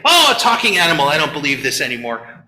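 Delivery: quick scoff then a low, dismissive drop; mock skeptic. Cynics dismissing the talking animal, scoffing. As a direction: brush it off like a cynic. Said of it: "everybody misses when they say".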